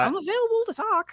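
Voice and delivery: high mock voice. Mock reply from Jeff.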